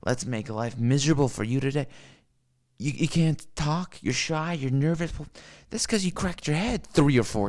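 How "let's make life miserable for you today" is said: mocking world voice. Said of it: "the world is like".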